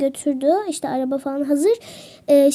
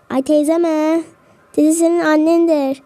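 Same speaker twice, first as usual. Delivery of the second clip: mock offended; 4 dB louder, slower than usual. Passenger offended at being called auntie.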